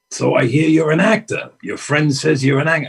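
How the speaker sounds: a hint of the famous actor sizing her up; Al Pacino impression. Pacino quizzing young actress in restaurant, lightly imitated. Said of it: "your imitation is genius".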